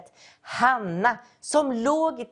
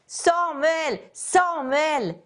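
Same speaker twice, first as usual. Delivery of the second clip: higher-pitched call, each name falling away; calling out Samuel's name; 4 semitones higher, much slower than usual. Acted. God calling the sleeping boy Samuel, a raised call. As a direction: call his name across the dark room. God calls a third time.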